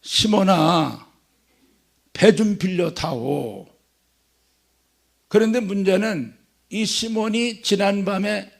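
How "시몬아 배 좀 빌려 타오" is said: slow, measured request; Jesus asks Simon for his boat, slowly; Jesus asking gently. Retold or imitated. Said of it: "베드로에게 가서".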